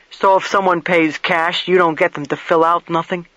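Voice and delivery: lightly voiced plain-spoken investigator; blunt investigator. Investigator questions motel keeper about the guest's arrival, lightly voiced blunt questioning. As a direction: put mild push into the questioning.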